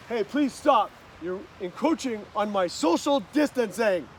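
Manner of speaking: lightly sarcastic, mock-polite objection. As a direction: say it with a little sarcasm. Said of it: "with a little bit of sarcastic voice".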